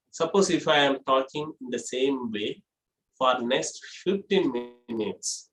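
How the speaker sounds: low, soft unmodulated voice; monotone. Shown as a demonstration. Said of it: "without raising my voice modulate".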